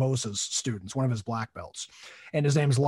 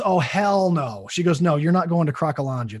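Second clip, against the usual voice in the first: wife putting her foot down, louder; imitated firm refusal; 3 semitones higher, 5 dB louder than usual. Retold wife forbidding the trip.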